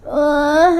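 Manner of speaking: sleepy reluctant groan; drowsy. Acted. Ciki waking up unwilling, sleepy groan. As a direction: groan like you don't want to get up. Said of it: "meskipun masih mengantuk".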